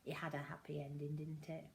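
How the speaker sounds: soft whisper, quick. Real, not acted. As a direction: hush it out fast. Soft closing remark.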